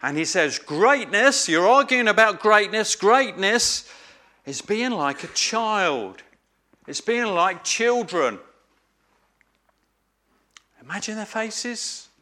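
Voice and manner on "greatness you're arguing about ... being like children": emphatic teacher driving home Greatness. Retold or imitated. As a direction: press the word Greatness like a rebuke. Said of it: "He starts off truly emphatic".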